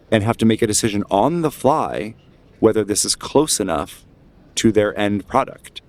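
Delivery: deliberate, emphatic orator with measured pauses; rally the crowd against the church; speech-making, key words drawn out; impassioned dissenter. Acted. GM voices agitator in the crowd.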